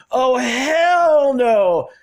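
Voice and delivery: drawn-out high sassy "Oh, hell no!"; a loud, mocking snap of refusal; mean retort. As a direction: fling it back, loud, slow and indignant. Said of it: "and that's like".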